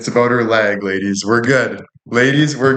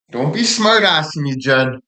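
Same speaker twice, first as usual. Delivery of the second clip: higher mock scolding voice; 6 semitones higher than usual. Shown as a demonstration. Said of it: "when I talk with this".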